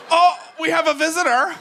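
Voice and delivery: high, loud posh English voice; mock posh British welcome; posh British audience. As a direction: gasp like a thrilled English host. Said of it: "when they think you're from England".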